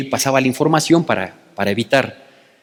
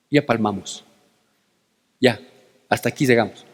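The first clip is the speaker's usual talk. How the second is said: frightened servant; 6 semitones lower, 4 dB quieter than usual. Retold or imitated. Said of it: "Se espanta Giesi".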